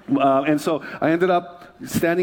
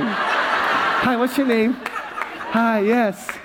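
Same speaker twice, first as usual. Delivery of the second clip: higher, playful mock greeting; hammed-up greeting; 4 semitones higher, much slower than usual. Pastor greeting someone who recognized him, hammed-up higher voice. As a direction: put on a slightly showy hello.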